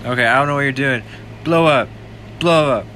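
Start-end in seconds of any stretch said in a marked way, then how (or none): 1.4-1.9 loud high yell, blow up; excited shout. Real, not acted. 2.4-2.9 loud high yell, blow up; excited shout. Real, not acted. Repeated shout.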